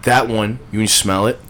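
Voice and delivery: excited. Real, not acted. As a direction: gush with real excitement. Enthusing about Autumn Evening.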